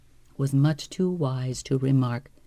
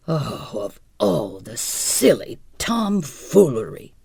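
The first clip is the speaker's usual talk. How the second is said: exasperated outburst; 3 dB louder than usual. Acted. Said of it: "he burst out".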